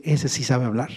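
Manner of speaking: ordinary delivery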